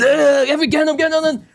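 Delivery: hammed-up harsh father barking at household; mock angry father. Father who brings fear to his household, mock yelling.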